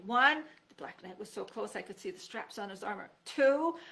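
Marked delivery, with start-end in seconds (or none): 0.1-0.4 loud count. A narrator's reading. Counting before the jump. 3.2-3.8 loud count. A narrator's reading. Counting before the jump.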